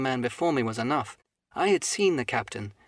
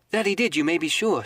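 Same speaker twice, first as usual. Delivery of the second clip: put-on eager boy; 5 semitones higher, 4 dB louder than usual. Jim eagerly confirms.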